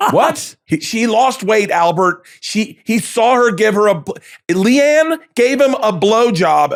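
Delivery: high, fast, mock-confused babble; imitating a dad tripping over his words; flustered dad. Dad garbling gossip to his mom, flustered. Dad mangling the blowjob story.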